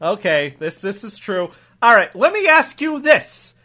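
cop reading and reluctantly conceding; accented officer, subdued then pressing his question; lightly puzzled local cop; grudging cop. Acted. Cop inspects the permit.

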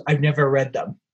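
quoting her with a laugh; laughing through it. Retold or imitated. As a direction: let a chuckle slip into the quote. Retold punchline, laughing.

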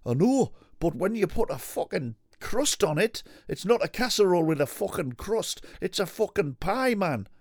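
hammed-up exasperated rant; mock angry biker. Arguing with his co-host about pie, high and loud.

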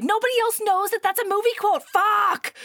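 high, fast retold exasperation; exasperated outburst. Woman fed up with his movie quote, mock exasperation. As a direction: burst out in mock frustration, loud on the swear.

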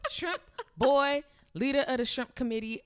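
high, loud, laughing jibe. Real, not acted. Woman mocking her date to a friend, laughing. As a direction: cackle through the mocking nickname. Cracking up while mocking his size.

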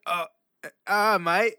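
imitating a fake Australian accent; mock Australian accent. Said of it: "some English accent shit".

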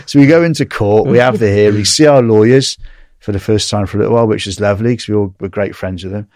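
ordinary delivery

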